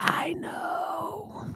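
close, hushed, leaning-in whisper. Showing how to lean in while saying it: imitating a leaning-in whisper. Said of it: "You gotta lean in and like".

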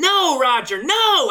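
shrill, high, loud protesting scream. Ranting at a dead movie critic about his review, screaming. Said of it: "I'm screaming to him from fucking beyond the grave".

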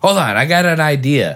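mock, high-pitched shouted yell. Describing a guy trash-talking during an MMA fight, retelling a yell. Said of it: "Like he's yelling to no one".

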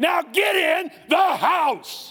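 full-out yell, very high pitched and very loud. Speaker addressing an audience, quoting a command, yelling. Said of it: "I'm yelling too much today".

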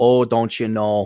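Minnesota-style drawl. Speaker describing his accent demonstrates the Minnesota drawl he picked up. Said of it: "kind of Minnesota drawl".

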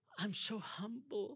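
soft, whiny voice with put-on meekness. Mimicking a falsely humble religious person, mock whining voice. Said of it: "speak with a whining voice".

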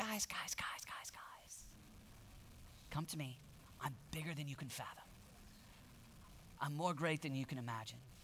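soft, breathy whispering. Acting out Jesus speaking to his disciples in the storm: imitating Jesus. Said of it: "And he's like".

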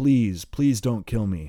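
crying out in fear and pain, voice cracking. A wounded attacker hidden under the boardwalk pleads with two men, crying out in fear and pain. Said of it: "he cries out from the darkness".

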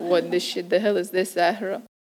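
hushed, put-on Persian accent. Speaker quotes her father's favorite phrase; persian accent imitating dad. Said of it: "every time I do an accent".

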